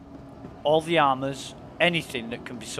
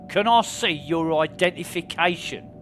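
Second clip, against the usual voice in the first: security guard; 4 semitones higher, 4 dB louder than usual. Pretend. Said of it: "I'm playing security guard".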